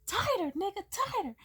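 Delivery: high, pumped mock enthusiasm; joking hype. Joking to a friend squeezing too hard, high hype. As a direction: cheer him on as if loving the crushing hug. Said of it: "I just kinda joked".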